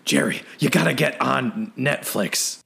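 a weak, barely changed Kramer voice; half-hearted sitcom neighbour impression; terrible Kramer impression. Friend mocks a bad Kramer impression, barely voiced. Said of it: "That was a terrible Kramer impression".

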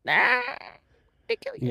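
high mock robot threat; a menacing killer robot. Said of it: "He's like a sentinel".

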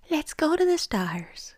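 spooky whisper. Pretend. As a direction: breathe it like a mystic. Mystical intro to astrology.

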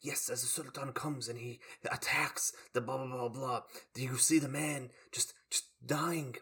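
lightly put-on Turkish tour guide accent; a hint of a Turkish guide. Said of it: "his very funny Turkish accent".

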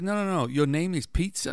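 high-pitched retold disbelief; incredulous. Pizza clerk questions the customer's name, incredulous. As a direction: correct them, then question in mock astonishment.

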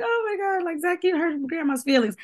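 a lightly hammed-up pretend cry to tease; grandma's fake cry. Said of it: "my mom always fake cry with him and be like".

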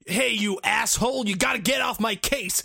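imitating an English actor's attempt at American; Englishman's American accent. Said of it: "that guy's from England".

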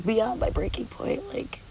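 drops to a tired whisper; nearly voiceless, at the end of her rope; a breath of a whisper. Real, not acted. Describing her breaking point.

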